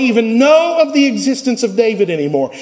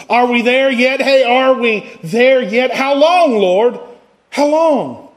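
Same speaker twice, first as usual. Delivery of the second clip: pleading complaint; 2 semitones higher than usual. Acted. Preacher voicing pleading complaint.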